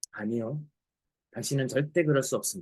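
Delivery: very deep, very soft, hushed low voice. Telling a story, voicing the pianist's second reply in a low voice. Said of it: "다시 한번 낮은 목소리로 얘기합니다".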